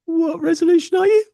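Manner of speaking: high, chirpy machine voice; computer asking. Retold or imitated. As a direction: ask like a polite little computer. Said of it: "And the computer says".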